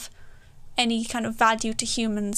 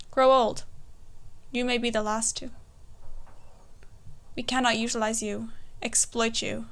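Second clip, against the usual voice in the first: poetry reading; 3 dB quieter than usual. Acted. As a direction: recite it like a performance poem. Poem recitation.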